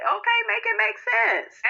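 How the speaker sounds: sassy make-it-make-sense; exasperated sass. Real, not acted. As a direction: pitch it way up and stretch it, fed up. Exasperated about people acting hurt.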